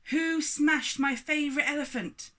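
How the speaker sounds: booming giant's roar, high and loud; thundering giant. Acted. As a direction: thunder it at the whole house. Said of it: "he thundered through the door".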